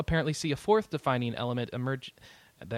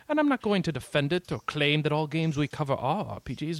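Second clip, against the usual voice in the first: lightly regal voice; a hint of a proud king; booming warrior king; 4 semitones higher, 3 dB louder than usual. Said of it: "I wish you'd have gone with a Picard voice".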